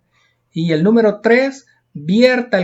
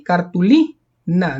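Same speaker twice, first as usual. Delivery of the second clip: cartulina slowly, held on LI before a separate na; stress on the I; much slower than usual. Shown as a demonstration. Teacher explaining the missing accent mark, stressed I. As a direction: dwell on the I of cartulina. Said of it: "no se tilda en la I".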